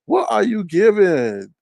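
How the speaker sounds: slow, loud, drawn-out taunt; mocking question. Real, not acted. Roasting her birthday, slow mocking question.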